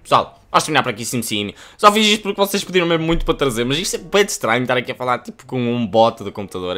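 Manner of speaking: fast, loud and high wrap-up to viewers; excited outro. Real, not acted. Youtuber wrapping up for viewers, fast excited outro. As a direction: rattle off the sign-off, hyped up.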